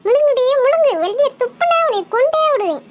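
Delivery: put-on scolding parent forcing a child to obey; threatening command. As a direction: order it sternly, brooking no refusal. Forces girl to swallow, threatens. (மிரட்டி அதட்டுவது)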